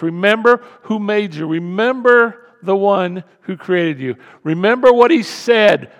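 loud, driving, repeated exhortation; full-force preaching. Real, not acted. Preacher calling the church of Sardis to remember, forceful. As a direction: hammer each call to remember.

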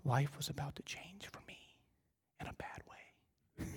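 low, hushed, ominous whisper; very soft, sinking into whisper; dad's quiet voice. Retold or imitated. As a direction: whisper it like a quietly serious father. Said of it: "when my dad talked like this".

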